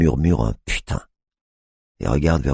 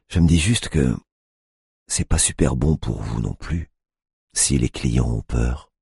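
honeyed tone. A narrator's reading. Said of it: "sur un ton mielleux".

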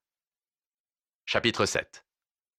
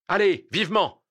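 raised, urgent order; sharp order, pitched up; brisk command; 9 semitones higher, 4 dB louder than usual. Acted. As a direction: call out to hurry them along. Judge hurries the bearers on.

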